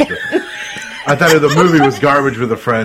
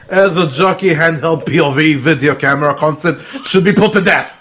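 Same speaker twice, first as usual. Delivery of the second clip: put-on light French accent, laughing. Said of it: "Read the rest of it in a French accent".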